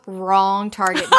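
slow, cool threat; a slow, unbothered mock warning. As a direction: lay it down slow and calm. Lucian warns Knox, quoted.

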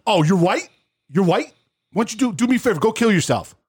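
high, mocking kid voice. Mimicking the kid who told him to die, high and mocking. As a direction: sneer it high like a bratty teen gamer. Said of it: "that's all he kept on saying".

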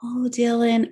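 put-on softly cooing the baby's name; mother softly cooing to her sleeping toddler; soft tender coo. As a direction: lean in and coo gently to a sleeping baby. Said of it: "I leaned over and I said, like".

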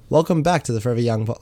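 radio announcer read of the intro. Shown as a demonstration. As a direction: read it like a smooth radio host. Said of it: "read it in my announcer voice".

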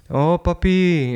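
put-on slow, high little-kid voice; three-year-old child. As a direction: drag it out like a small child. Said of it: "playing Connect Four with a three-year-old".

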